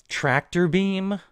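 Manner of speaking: high, slow puzzled question; baffled. Real, not acted. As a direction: drag it out in disbelief. Puzzled reading of own note.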